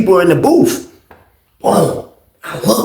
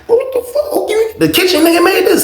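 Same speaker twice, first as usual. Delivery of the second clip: high, laughing squeal of disbelief. Retold or imitated. Roommate biting into a sloppy hot dog, laughing disbelief. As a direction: crack up mid-question like he can't believe the food.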